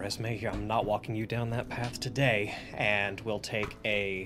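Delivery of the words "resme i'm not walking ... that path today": muttered whisper under breath. Recounting the words they spoke to Resme, whispering under breath. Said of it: "And I whisper under my breath".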